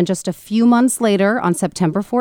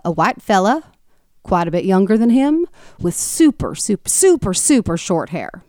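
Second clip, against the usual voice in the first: a hint of a Southern man; Southern accent. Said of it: "that was a terrible Southern accent slash, slash impersonation of Alex Murdaugh".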